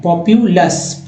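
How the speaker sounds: पॉपुलस drawn out slowly; slow model word. Shown as a demonstration. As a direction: pronounce पॉपुलस slowly for learners.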